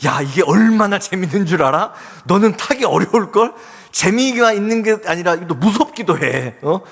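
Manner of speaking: lightly voiced bratty older sister, mocking; teasing big sister. Big sister teasing her crying little brother about the ride, mocking. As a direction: taunt the little one like a smug big sister. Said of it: "앞에서 막 놀리는 겁니다".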